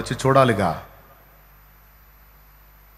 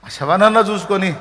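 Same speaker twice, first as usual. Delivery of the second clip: lightly voiced weeping Magdalene; 3 semitones higher than usual. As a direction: plead like a grieving woman, understated. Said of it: "మగ్దలేన ఏడుస్తా పోయిద్ది". (మగ్దలేన ఏడుస్తూ అడిగే స్వరం, తేలికగా)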